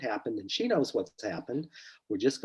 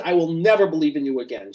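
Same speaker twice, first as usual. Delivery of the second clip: retold screaming; 4 semitones higher, 5 dB louder than usual. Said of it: "She's screaming all this stuff".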